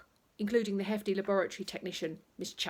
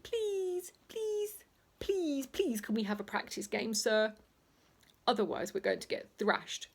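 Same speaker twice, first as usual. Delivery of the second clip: high, whiny begging schoolboys; pleading boys; 4 semitones higher than usual. Acted. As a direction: beg sir like desperate kids. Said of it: "the boys would plead".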